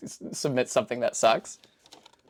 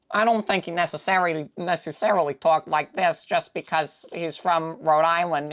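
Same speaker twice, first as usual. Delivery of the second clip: bad Peter Griffin. Shown as a demonstration. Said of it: "I know that's a really bad Peter Griffin".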